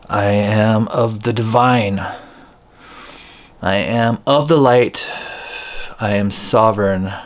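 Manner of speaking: slow declaration, word by word; slow, articulated. Shown as a demonstration. Healer has everybody repeat the clearing words, very slowly. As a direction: articulate carefully, leaving room to repeat. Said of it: "say it very slowly".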